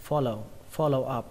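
"follow" stressed on fol-, falling after; first-syllable stress. Shown as a demonstration. Teacher shows learners where stress falls, first syllable. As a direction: put the weight on the start of "follow". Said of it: "trọng âm của nó là âm đầu tiên".

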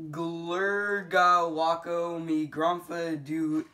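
slow, drawn-out nonsense babble; silly sounds. Pretend. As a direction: stretch out the gibberish slowly. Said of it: "make silly sounds".

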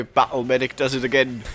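lightly put-on British accent; a hint of mock British; fake British accent. Gamer cheering own play in a fake British accent. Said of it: "That was one fake British accent".

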